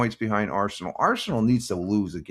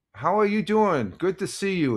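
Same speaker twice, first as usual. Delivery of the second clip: excited greeting; 8 semitones higher than usual. Real, not acted. Greeting a viewer who arrived.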